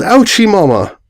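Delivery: high yelped cry of pain; yelling in pain. A narrator's reading. Falling off the ledge of Ponyville, high pained yell. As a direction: yelp it as he tumbles. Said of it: "and he yelled".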